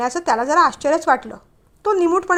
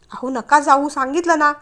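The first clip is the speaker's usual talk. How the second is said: almost shouting; 4 dB louder than usual. Acted. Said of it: "जवळजवळ ओरडतच ती म्हणाली".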